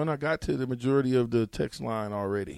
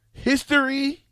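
orator voice; 12 semitones higher than usual. Pretend. Theatrical announcement with laugh.

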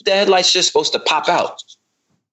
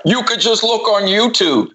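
mock know-it-all; 7 semitones higher than usual. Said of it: "Twitter followers that are like".

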